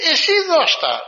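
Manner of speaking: high, loud insistence; high, loud command; insistent order. Retold or imitated. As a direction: press him to give it away. Melania insists, refusing to take it back.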